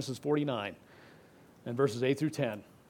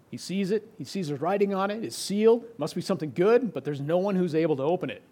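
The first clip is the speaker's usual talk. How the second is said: imitated eagerness; 4 semitones higher, 4 dB louder than usual. Voicing John's eager thoughts.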